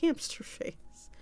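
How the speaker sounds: slow, high, breathy giggle through the name; can't hold in a laugh while saying it. Real, not acted. Reads the name, breaks into laughter.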